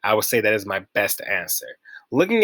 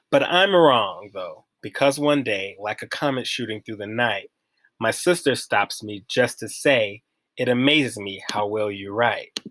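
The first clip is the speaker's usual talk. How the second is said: poem reading. Acted. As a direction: recite it line by line. Reads a poem aloud.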